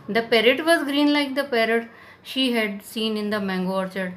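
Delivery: slow, deliberate read-aloud of the English text; unhurried storybook narration; slow story reading. A narrator's reading. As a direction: read it out slowly for the class. Reads English story text slowly.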